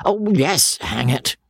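a hint of a cursing squire; old baronet cursing. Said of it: "said Sir Pitt".

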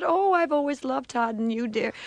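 sweet operator voice. Retold or imitated. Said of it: "She said".

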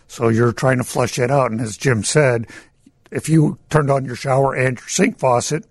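losing my voice. Real, not acted. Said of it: "I'm losing my voice".

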